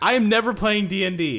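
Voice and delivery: high comic outrage at bad luck; high, fed-up outburst; exasperated. Real, not acted. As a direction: swear off the game in exasperation. Player fed up after bad roll.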